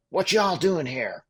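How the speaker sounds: high, loud, slow put-on Southern drawl; a hammed-up Southern old man asking what's going on; poor Southern accent. Old white man in a pickup questioning the band, in a mock Southern accent. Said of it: "excuse my poor accent".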